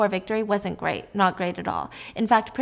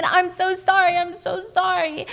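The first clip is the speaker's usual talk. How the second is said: high, raised, imitated wail of apology; screamed apology; 10 semitones higher, 4 dB louder, slower than usual. Husband screaming apology as wife is seized, imitated. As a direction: cry it out drawn and high, acting frantic. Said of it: "And he's screaming".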